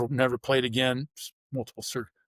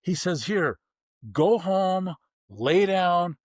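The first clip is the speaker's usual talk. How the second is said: doctor's brisk orders; 5 semitones higher, 3 dB louder, slower than usual. Retold or imitated. Doctor hands note, sends him home.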